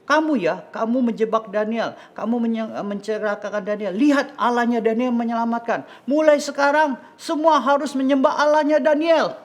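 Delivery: high, loud royal scolding; king's indignant proclamation; angry king. Acted. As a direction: denounce the plotters, building to a loud decree. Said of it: "raja marah sama yang".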